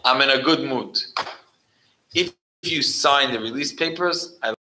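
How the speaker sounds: a boss offering a favour; smug prison chief. Retold or imitated. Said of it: "and he said".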